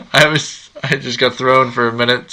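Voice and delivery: muffled behind a hand; hand over mouth. Real, not acted. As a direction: talk through your hand. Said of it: "I'm covering my mouth".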